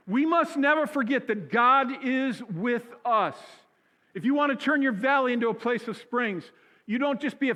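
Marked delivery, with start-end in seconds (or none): 0.1-5.5 preacher voice. Shown as a demonstration. Pastor reminding the whole congregation, emphatic preacher voice. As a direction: proclaim it like a preacher, stretching the words.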